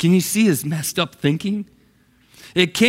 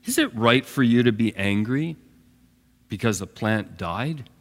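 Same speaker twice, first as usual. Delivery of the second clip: gently; 4 semitones lower, 3 dB quieter than usual. Acted. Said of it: "I think gently again".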